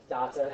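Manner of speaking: data said as tah-tah, broad a in both syllables; the unaccepted way of saying "Data"; wrong pronunciation. Shown as a demonstration. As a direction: say "Data" with open ah vowels, like a toddler calling dad. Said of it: "Don't say data".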